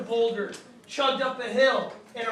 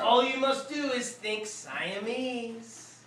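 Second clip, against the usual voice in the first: coaxing call; slower than usual. Acted. Mother coaxing in story.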